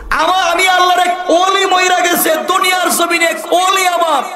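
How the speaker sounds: high ringing proclaiming shout; joyful shout. Acted. Preacher voicing God shouting joyfully to Moses. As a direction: cry it out in triumphant joy.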